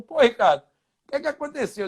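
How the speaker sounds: lightly voiced teammate, pitch lifted; Ivan Zamorano. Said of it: "ele falou".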